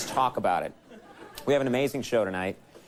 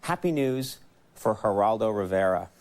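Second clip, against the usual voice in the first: Geraldo Rivera; 3 semitones lower than usual. Acted. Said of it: "That's my Geraldo impression right there".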